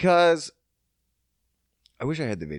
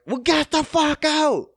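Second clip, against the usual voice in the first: retold shout; 9 semitones higher, 3 dB louder than usual. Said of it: "they were like".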